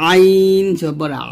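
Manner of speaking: আ squeezed from the throat; slow, throat-pressed Arabic Ain in আ. Shown as a demonstration. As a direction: press the আইন and আ in the throat, drawn out slowly. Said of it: "এই যে চাপ দিন".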